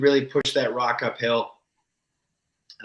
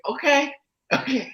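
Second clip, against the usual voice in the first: laughing okay; 12 semitones higher than usual. Retold or imitated. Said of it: "You're like".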